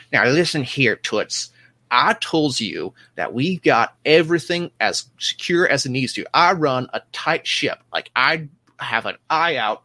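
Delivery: a pushy little official, talking fast and loud; bossy small-time officer blustering; gruff portly man. Acted. GM voices portly ship officer.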